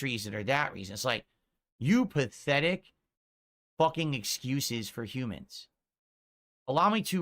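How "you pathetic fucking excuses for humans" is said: slow, deliberate scorn; real contempt. Real, not acted. Streamer berating his longtime detractors, slow and contemptuous. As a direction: spit the insult out slowly, in separated chunks.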